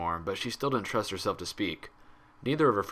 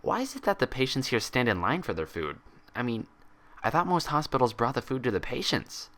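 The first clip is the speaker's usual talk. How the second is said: casual; 4 semitones higher than usual. Acted. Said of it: "Twilight spoke casually".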